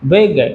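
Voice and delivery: बिग split into two beats, बि-ग; two syllables. Shown as a demonstration. Teacher showing a class the two syllables of बिग, syllable by syllable. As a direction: say बिग in two separate pieces. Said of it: "दो खंड में बोल रहे हैं".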